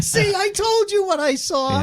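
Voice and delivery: put-on high, frightened kid voice; squeaky imitation of a scared daughter. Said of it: "She's like".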